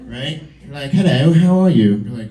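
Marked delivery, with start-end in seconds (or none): 0.9-2.0 louder put-on British greeting; British accent. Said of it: "speak with a British accent".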